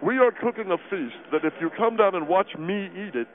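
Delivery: talking while eating; words round a bite of food; mouth full. Acted. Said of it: "talking with your mouth full".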